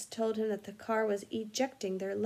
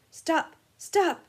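high, loud panicked yell; yelling stop; 7 semitones higher, 7 dB louder than usual. Acted. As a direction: shout it while slamming the dashboard. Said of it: "he yelled".

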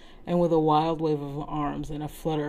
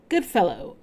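cried out; 6 dB louder than usual. Acted. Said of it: "I cried out ostentatiously".

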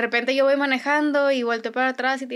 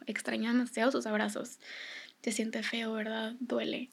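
softly sharing the hurt; quiet, gentle empathy; tender comforting; 10 dB quieter than usual. Retold or imitated. Voices comforting her grieving daughter.

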